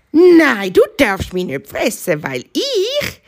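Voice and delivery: high, urgent little hare voice; pleading bunny. Acted. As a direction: bargain for your life like a small hare.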